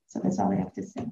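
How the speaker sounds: real, breath-only whisper as the voice gives out; choked whisper. Real, not acted. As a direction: barely get the words out. Ends her eulogy, overcome.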